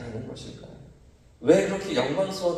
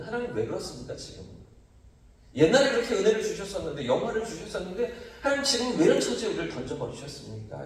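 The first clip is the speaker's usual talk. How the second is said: mildly raised, reproachful appeal to God; resentful complaint; 3 semitones higher, faster than usual. Acted. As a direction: put a touch of grievance into the questions. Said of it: "이런 원망의 마음이". (원망 섞인 목소리로)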